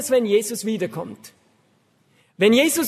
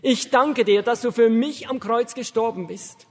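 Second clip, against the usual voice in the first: prayer. Shown as a demonstration. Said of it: "sagen ungefähr Folgendes".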